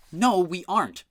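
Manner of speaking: put-on high, loud girl's protest; cried out. A narrator's reading. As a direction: cry it out in alarm. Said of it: "cried Isadora".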